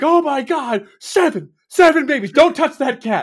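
all-out, shrill, loud screaming outburst. Describing an actor's antics on camera, acting out his scream: imitating someone screaming. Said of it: "He's just screaming like".

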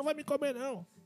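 fake high-pitched actress scream. Recalling a scene from Brazilian film and TV for a friend, imitating Regina Casé screaming. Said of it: "Regina Casé gritando".

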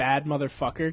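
ordinary talk

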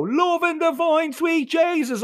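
put-on shrill, very high, terrified scream. Reading a story, flung through the darkness by friends: screaming. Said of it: "I screamed as I flew".

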